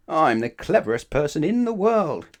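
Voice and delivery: high, loud proud announcement; loud boast. Acted. Mister Clever boasting loudly to Mister Happy. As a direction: trumpet it to the stranger.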